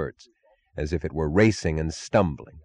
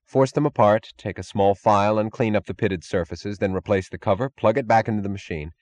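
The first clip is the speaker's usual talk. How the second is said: brusque engineer tone. Acted. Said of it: "brusque, competent tone of an engineer".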